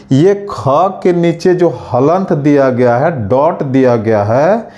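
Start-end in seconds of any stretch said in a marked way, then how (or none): none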